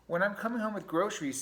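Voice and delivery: high, loud rat voice; grumbling pack rat. Acted. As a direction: complain loudly as a storybook rat.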